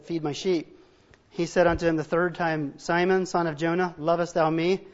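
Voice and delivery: measured, solemn Bible reading; scripture reading. Acted. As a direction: read the King James passage with reverence. Scripture reading before the sermon.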